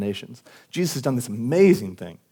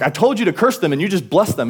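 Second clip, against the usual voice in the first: mildly indignant, higher-pitched retelling; retold anger; 5 semitones higher than usual. Balak rebukes Balaam for blessing Israel, mock anger. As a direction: voice an exasperated complaint in retelling. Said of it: "Balak gets really angry".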